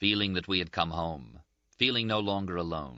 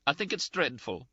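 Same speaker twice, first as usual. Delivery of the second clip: high-pitched, indignant, close to tears; a reproachful friend near tears, voiced higher; Ferguson's scolding; 9 semitones higher than usual. A narrator's reading.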